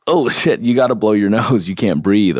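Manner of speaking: voicing the body, with a laugh. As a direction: play the body as a startled little voice breaking into a laugh. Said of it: "the body is just like".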